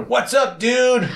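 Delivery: very high, put-on hawker voice; vendor greeting. Market vendor greeting the speaker, very high put-on. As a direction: sing out a hello like a stall seller.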